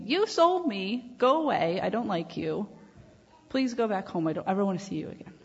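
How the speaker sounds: Joseph, betrayed, snapping at his brothers in mock anger; mock angry Joseph. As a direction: pretend to be furious at the brothers, then rush the rest. Joseph imagined as angry brothers' victim.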